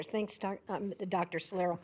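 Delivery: ordinary talk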